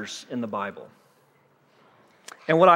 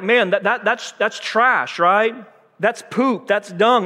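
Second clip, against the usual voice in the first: mock disgust; 4 semitones higher, slower than usual. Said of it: "very degrading".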